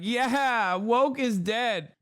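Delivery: mock cheer, high and stretched; mock gleeful agreement. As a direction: gloat like a delighted pundit, mocking. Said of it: "And Megyn Kelly's like".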